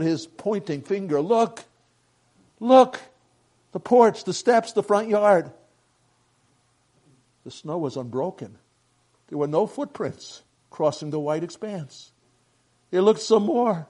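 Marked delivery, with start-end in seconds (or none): 1.2-5.5 loud, high exclamations; insistent, raised-voice wonder; urgent amazement. A narrator's reading. Pointing out snow without footprints. 12.9-13.9 louder, higher storytelling line; raised, pressing narrator voice; emphatic narration. A narrator's reading. Search repeated, first take emphatic.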